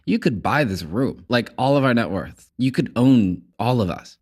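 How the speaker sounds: playful quote. Retold or imitated. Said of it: "We're like".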